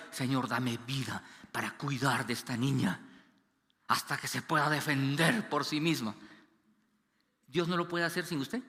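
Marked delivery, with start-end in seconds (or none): 0.1-6.1 a hushed plea to God. Retold or imitated. Retold prayer for newborn daughter.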